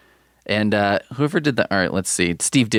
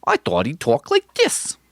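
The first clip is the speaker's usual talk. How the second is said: high, odd put-on voice; Daredevil voice; 8 semitones higher than usual. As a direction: mimic the squeaky Daredevil again. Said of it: "That's how I always pictured him talking".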